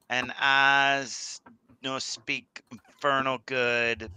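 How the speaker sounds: slow, halting bad Southern French accent; terrible Southern French accent. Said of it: "in a terrible bad accent".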